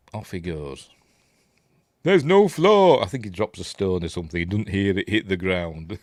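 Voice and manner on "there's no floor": high, loud, drawn-out cry; mock exclamation. Quoting the film at the pit, high mock cry. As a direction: call it out high, stretching the words.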